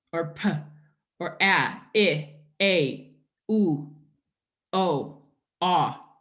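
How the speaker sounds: isolated sounds p, a, I, oo, o, ah said one by one; teacher modelling single phonemes. Shown as a demonstration. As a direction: sound out each phoneme alone, clearly. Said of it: "an example of a phoneme".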